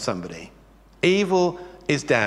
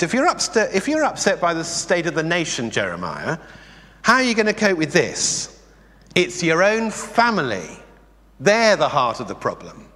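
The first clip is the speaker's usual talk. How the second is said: voice of God, firm; 2 semitones higher than usual. Acted. Preacher voicing God's reply.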